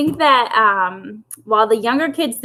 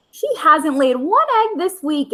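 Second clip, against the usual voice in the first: complaining; 5 semitones higher than usual. Acted. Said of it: "Aunt Zoe complained".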